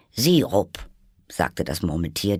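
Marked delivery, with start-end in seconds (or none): 0.1-0.9 prompt, higher, louder word; unthinking answer. A narrator's reading. Dormouse answers Alice without thinking, prompt and loud. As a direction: blurt it out at once. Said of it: "diesmal ganz ohne zu überlegen".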